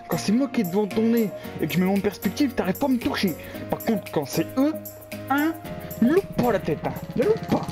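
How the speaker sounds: high, bitter sarcastic rant; raging gamer. Real, not acted. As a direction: complain bitterly at the game. Ranting at enemy aim.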